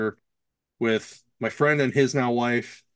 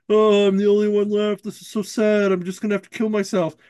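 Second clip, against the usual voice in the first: mock despair; 8 semitones higher, 4 dB louder than usual. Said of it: "And he's like".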